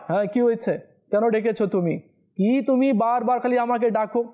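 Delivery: an irritated, impatient son snapping back; mock the disrespectful son; rude son. Shown as a demonstration. Preacher imitating a rude son answering his mother, irritated. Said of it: "এভাবে বলা যাবে না".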